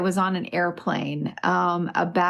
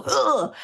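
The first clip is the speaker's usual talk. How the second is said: grunt; 4 semitones higher than usual. Retold or imitated. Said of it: "made some dude go".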